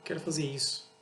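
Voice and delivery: mildly easygoing, a bit understated; laid-back request. Acted. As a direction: ask casually, no fuss. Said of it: "de boa".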